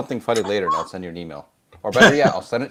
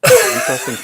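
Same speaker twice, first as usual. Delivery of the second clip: mock intrigued; 9 dB louder than usual. Mock intrigued reply to joke.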